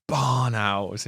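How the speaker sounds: lightly imitated big voice, drawn out; a hint of the big, imposing voice; Henry. Teasing his friend with his own line, lightly mimicked. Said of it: "in his big, deep voice".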